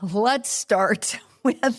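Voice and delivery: slow start, laughing through the words. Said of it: "why am I laughing?".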